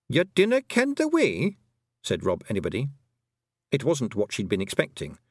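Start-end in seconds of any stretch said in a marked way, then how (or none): 0.1-1.6 high, slow Scots disbelief; amazed she doesn't know, Scots burr; surprised Feegle. Acted. Rob Anybody surprised at Tiffany, high Scots disbelief.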